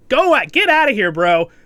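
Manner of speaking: loud, high urging; cheering him on. Real, not acted. Reviewer urging the friend to flee, loud and high. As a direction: yell it like a fan at the screen.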